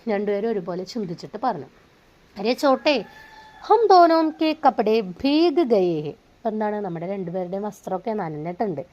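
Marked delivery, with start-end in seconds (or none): 2.4-6.1 worried. Acted. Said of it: "चिंतित होकर बोला".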